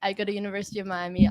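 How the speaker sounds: said up, into the mic, fast; closer to the mic. Real, not acted. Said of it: "Speaking to the mic a little bit".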